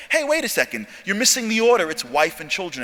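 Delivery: a sudden high, sharp objection; objecting Rashi. Retold or imitated. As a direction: jump up in pitch as if catching a mistake. Rashi objects to verse order.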